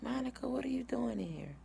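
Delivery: high, hushed surprise; retold doctor's startled whisper; surprised whisper. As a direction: whisper it, caught off guard. Doctor surprised to see cousin.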